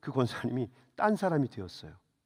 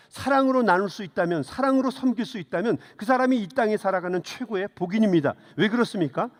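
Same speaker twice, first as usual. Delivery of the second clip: lightly heightened sermon appeal; preaching; 2 semitones higher than usual. Acted. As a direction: press the listeners to serve others. Closing exhortation of the sermon.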